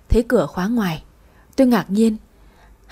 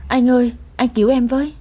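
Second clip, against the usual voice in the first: a touch of tearful pleading, higher; mild sobbing plea; 4 semitones higher than usual. Acted. Woman in debt begs ex on phone, mildly tearful. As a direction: beg him for help, lightly tearful. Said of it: "khóc nức nở trong điện thoại".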